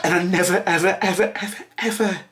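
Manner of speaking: real tearful rise, fighting to get the words out; choked up. Real, not acted. Thanking online friends through real tears, voice climbing high. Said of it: "if my volume was going up there".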